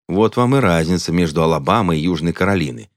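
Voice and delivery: plain reading voice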